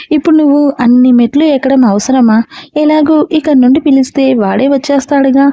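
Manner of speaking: plain reading voice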